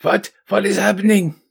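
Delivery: deliberately bad German accent, bewildered; crap German accent. Game master obliges the players' request, crap German accent. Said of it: "a crap German accent".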